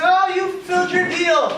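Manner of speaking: high-pitched, mock-impressed exclamation; amused, high character line; lightly voiced witch. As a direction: lift the pitch for a playful witch. Witch returns to reward them.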